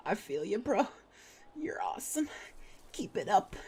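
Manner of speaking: high, hushed cheer for a buddy; squeaky-soft mock encouragement; playful soft cheering. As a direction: cheer someone on in a small high voice. Playful cheering after narrated grin.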